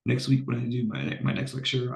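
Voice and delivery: flat, congested sick voice. Real, not acted. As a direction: talk through a cold, flat and tired. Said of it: "I don't sound like a robot".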